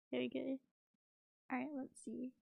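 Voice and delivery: hushed, breathy whisper; barely a breath, here we go. Real, not acted. Streamer whispers before playing the clip, hushed.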